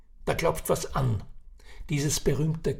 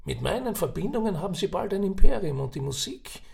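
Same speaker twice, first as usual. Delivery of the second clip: put-on raised, chatty old Viennese man; old café gossip; 5 semitones higher, 4 dB louder than usual. Old man sizing up Ferdinand at the café, chatty. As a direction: spin the yarn like a knowing old uncle.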